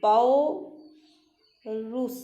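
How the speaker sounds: पौरुष stretched very slowly; पौरुष dictated very slowly; very slow dictation. Shown as a demonstration. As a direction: draw out पौरुष while writing. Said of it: "ये देखिए".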